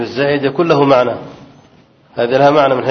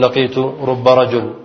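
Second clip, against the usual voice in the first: the wrong wording, said a little slowly as a warning; teacher shows students the phrasing to avoid, unhurried; wrong form, shown; slower than usual. Shown as a demonstration. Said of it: "ولا تقول".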